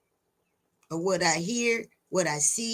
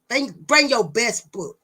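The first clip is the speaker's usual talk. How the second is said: loud challenge; 4 dB louder than usual. Real, not acted. Daring the audience.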